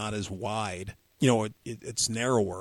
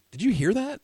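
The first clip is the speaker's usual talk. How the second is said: much higher, urgent question; imitating Mike, alarmed; 11 semitones higher, 4 dB louder than usual. Mike asks his friend about a strange sound, higher and urgent. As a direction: pitch it up like you just heard a ghost. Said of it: "He goes".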